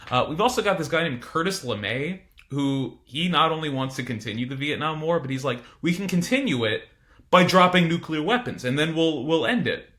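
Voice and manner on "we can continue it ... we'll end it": lightly hammed-up New York accent. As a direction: put on a punchy New York voice for the quote. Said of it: "I gave him a New York accent".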